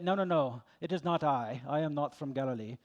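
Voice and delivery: lightly put-on formal disguise voice; change your voice a little, as if hiding who you are; disguised voice. Peter denying where he's from, in a mildly disguised voice. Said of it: "changed up his voice a little bit".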